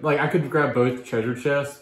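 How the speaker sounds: put-on gruff old pirate growl. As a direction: talk like a rough old sea dog. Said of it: "I lost my pirate voice".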